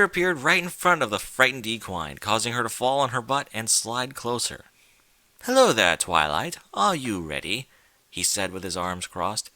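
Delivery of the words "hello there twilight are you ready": sly villain greeting. Acted. Discord greets frightened Twilight.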